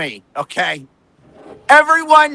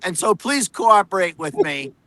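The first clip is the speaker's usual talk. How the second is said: condescending, superior mock reporter voice; smug reporter mockery; 2 semitones higher than usual. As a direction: parody a smug know-it-all talking down. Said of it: "their tone of voice is like".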